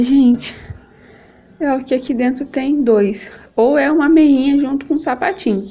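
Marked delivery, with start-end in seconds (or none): none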